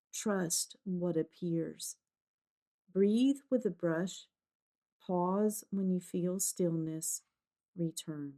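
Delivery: measured, calm phrases with long pauses; guided meditation. Real, not acted. Guide talking a listener through intuitive ink painting, calm meditation voice.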